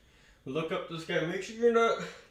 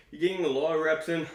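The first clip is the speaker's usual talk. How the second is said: out of breath; faster than usual. Real, not acted. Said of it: "Sorry, I'm just catching my breath".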